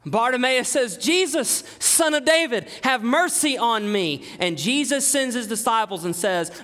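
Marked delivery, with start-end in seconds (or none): 1.0-4.2 mock screaming plea. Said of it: "he starts screaming".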